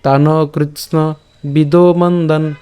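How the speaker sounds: slow, sustained, even-pitched verse recitation; full shloka recitation. Shown as a demonstration. Teacher reading the complete shloka for learners, slow recitation. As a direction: draw out the vowels and recite evenly. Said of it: "আমি আবার বলছি".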